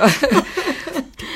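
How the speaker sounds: high laugh that falls away. Real, not acted. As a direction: laugh and let it fade. Laughter trailing off.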